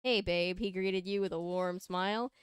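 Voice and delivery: measured fan-fiction read-aloud; story narration. A narrator's reading. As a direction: read it out like a storybook, leaning on key words.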